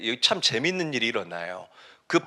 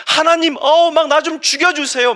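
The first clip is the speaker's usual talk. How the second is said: fed-up, high loud outburst; Jonah; 12 semitones higher, 7 dB louder than usual. Acted. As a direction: whine to God in exasperation. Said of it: "너무 열받아서 요나가 화를 내니까". (열받아서 높고 크게 내지르는 짜증)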